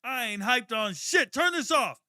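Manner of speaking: retold outburst at teammates in the locker room, shouting; outraged shout. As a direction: blow up at the music. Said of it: "I said".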